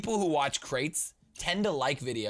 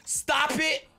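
mock scolding shout; 14 semitones higher, 6 dB louder than usual. Scolds his own laugh.

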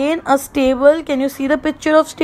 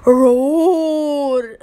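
long drawn-out mild roar; teacher's imitation of a lion roaring. Shown as a demonstration. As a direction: stretch the word into a gentle lion's roar. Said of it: "How do lion roar?".

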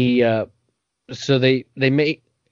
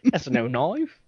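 knife said as noyv, mock Australian; Australian accent; 3 semitones higher, 3 dB quieter, slower than usual. Podcaster quoting the movie, mock Australian accent. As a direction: Dundee quote, jokey Australian. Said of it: "That's all the Australian I know".

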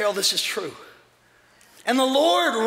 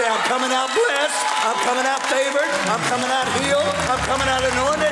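bold declaration; 3 semitones higher than usual. Shown as a demonstration. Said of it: "come out of the cave and say".

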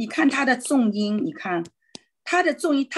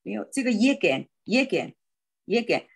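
耶根 with the first syllable 耶 stressed. Shown as a demonstration. Teacher drills the right stress of lleguen. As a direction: lean on 耶 in 耶根. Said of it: "就应该是耶根".

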